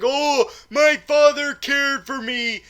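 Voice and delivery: high, slow, gushing exclamation; acted Swan. Swan realizing her father cared, hammed-up gushing. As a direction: draw it out in mock emotion. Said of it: "Swan is like".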